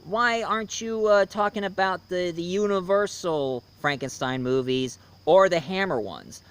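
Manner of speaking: lightly voiced fan asking why, pitch settling down; viewers' question. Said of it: "Your guys are thinking".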